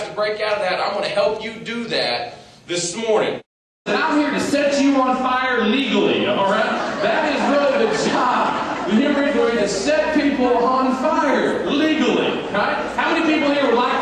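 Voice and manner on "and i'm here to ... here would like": fired-up hype. Real, not acted. Hyping up the audience.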